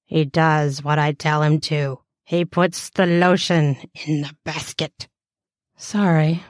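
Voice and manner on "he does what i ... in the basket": a hint of a creepy captor. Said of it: "In a creepy voice".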